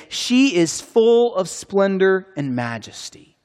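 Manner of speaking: high, slow incredulous asking; rhetorical question. Acted. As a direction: pose it as a doubtful question, drawn out. Rhetorical question about the queen.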